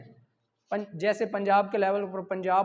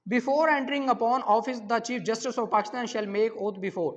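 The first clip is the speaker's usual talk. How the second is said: reading out the question; much slower than usual. Shown as a demonstration. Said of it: "question number nine".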